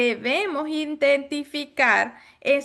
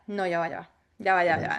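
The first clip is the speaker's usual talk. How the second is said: mock hesitant client; 5 semitones lower, faster than usual. Imitating paralyzed client.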